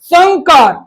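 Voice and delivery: संकार with back-of-mouth ng; nasal ng sound. Shown as a demonstration. Teacher restates the correct word, संकार with ng. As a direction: say संकार as "sangkaar". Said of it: "क का अ होता है".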